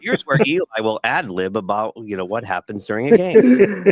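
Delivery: a mock stiff teleprompter read; a touch of a flat prompter read. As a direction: read it word for word like a clueless host. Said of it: "reads stuff off the prompter".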